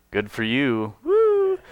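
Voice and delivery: dry sarcastic brush-off ending in a high mock whoop. Paul mocking believers who boast of faith, sarcastic. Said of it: "just that sarcastic".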